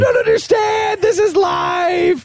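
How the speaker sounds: high, slow hammed-up shout; co-host hamming up the sons, shouting high and slow; mock kid yelling. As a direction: yell it like a frantic kid in a game. Co-host mocking the kids' urgency.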